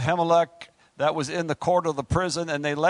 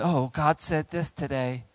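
mock naive believer; 2 semitones lower than usual. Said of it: "you randomly picked it".

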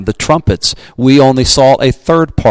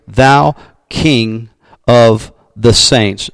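raised, ringing Bible reading; scripture reading. Acted. Pastor reading Revelation to the congregation, ringing proclamation. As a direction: lift the verse up like a proclamation.

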